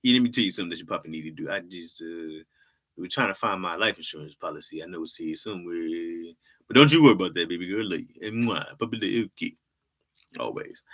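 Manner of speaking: a hint of a doting old father; fast, chatty dad voice; lightly voiced old dad reassuring baby girl; old man voice. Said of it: "Old black man voice".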